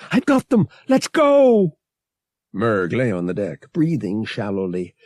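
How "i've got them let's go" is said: high, loud triumphant shout; calling out. Acted. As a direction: call it out to the whole ship. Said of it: "Bria's voice call out".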